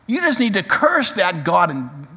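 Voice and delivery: a touch of scornful lashing out; mild mock scorn. Wife telling her husband to curse God, mild mock scorn. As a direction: toss it at him with mild contempt. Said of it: "she lashes out at her husband".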